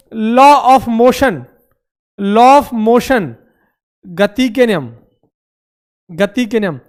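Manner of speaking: very slow, stretching "law"; slow dictation. Shown as a demonstration. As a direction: dictate it syllable by syllable. Teacher dictating a term. (बहुत धीरे, हर शब्द खींचकर)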